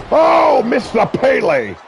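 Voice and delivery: sudden high, loud yell at the miss; excited shout. Real, not acted. Commentator reacting to a missed move, excited shout.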